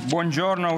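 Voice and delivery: Buongiorno said the Italian way, rolled and sung; Italian greeting. Shown as a demonstration. Speaker greeting the students in his native Italian. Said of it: "we say in Italian".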